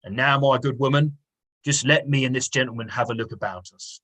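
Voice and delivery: a hint of a Cockney police inspector; lightly attempted Cockney inspector; self-consciously amateur Cockney accent. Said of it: "my attempt at a Cockney accent".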